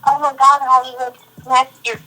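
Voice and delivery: hammed-up adoring caller; mock gushing fan. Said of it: "would have said".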